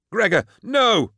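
high, slow desperate scream. A narrator's reading. Bequin screaming at Gregor not to charge. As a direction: stop him with your voice. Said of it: "Bequin screamed".

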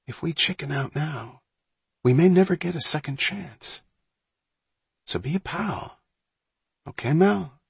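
high, hushed, gentle persuasion; gentle coaxing. A narrator's reading. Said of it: "his voice gentle".

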